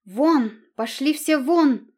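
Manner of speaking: Вон! shouted, slowed and high; furious shout. A narrator's reading. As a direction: drive them all out with a roar. Queen throws servants out.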